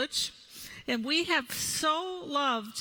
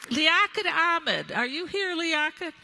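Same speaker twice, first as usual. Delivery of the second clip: raised, higher voice seeking someone in a crowd; projected roll-call, pitched up; 4 semitones higher, 5 dB louder than usual. Real, not acted. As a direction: call out to find someone in the audience. Calling for board chair in the audience.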